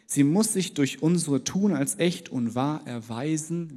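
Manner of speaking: measured, earnest Bible reading; scripture reading. Acted. Preacher reading First John to the church, solemn reading. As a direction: read the verse out to the congregation. Reads a Bible passage aloud.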